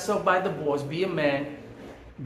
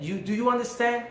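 higher, prodding "You, do you understand?"; pointed challenge; 8 semitones higher than usual. Retold or imitated. Neighbor pressing the narrator again, pointed and higher. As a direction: press him to admit it.

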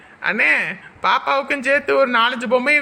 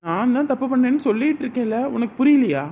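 playful bickering; 7 semitones higher, 4 dB louder than usual. Acted. Couple playfully arguing over blame.

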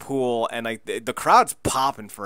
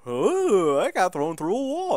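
dazed; 8 semitones higher, slower than usual. Retold or imitated. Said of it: "dazed and confused look".

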